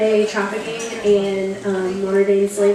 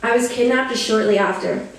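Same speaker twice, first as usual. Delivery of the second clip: earnest first-person poetry recital; solemn, rhythmic performance; spoken-word poem. Acted. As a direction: recite a survivor's testimony in measured phrases.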